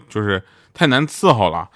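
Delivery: normal talking voice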